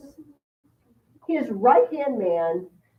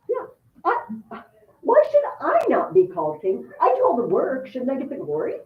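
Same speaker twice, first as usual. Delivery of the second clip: lightly voiced resentful prince; a mild hint of a complaining would-be king; Pepin's inner grumble. Teacher voicing Pepin thinking the king does nothing. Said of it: "here's what went through Pepin's mind".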